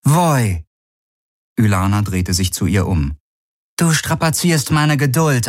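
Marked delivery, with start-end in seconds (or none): 0.0-0.6 sharp call. Acted. Ylana rebukes Voi. 3.8-5.5 stern rebuke. Acted. Ylana rebukes Voi.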